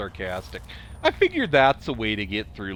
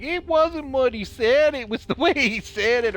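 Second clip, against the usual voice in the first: imitating complainers; 14 semitones higher than usual. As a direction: mimic griping staff in a raised pitch. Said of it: "they'd always be like".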